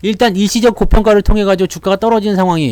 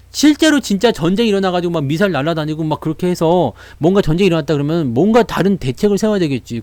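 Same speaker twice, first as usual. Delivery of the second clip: ordinary talk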